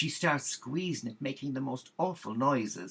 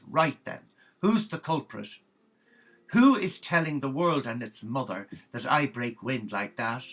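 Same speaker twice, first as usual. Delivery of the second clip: loud, outraged telling-off; a furious nun demanding the culprit, loud; indignant shout; 8 dB louder than usual. Acted. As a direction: bellow at the giggling novices.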